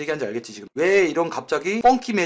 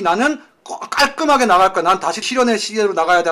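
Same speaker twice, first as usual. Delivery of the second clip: mock cool exit; 4 dB louder than usual. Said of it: "멋있게 탁 보여주는 거라니까".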